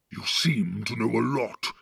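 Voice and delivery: gruff orc chief giving orders; Ugluk the orc captain. Acted. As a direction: bark orders at the cowardly Northerners. Ugluk replies.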